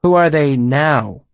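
"Who are they now" slow, leaning on "are"; clarifying stress. Acted. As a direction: stress "are" slowly, teasingly. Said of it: "I clarified".

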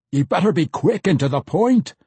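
lightly barked gruff order; a hint of a barking dwarf. A narrator's reading. Impatient Pwent, anxious to kill, lightly barks at the mage. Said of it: "barked at Bitterdew".

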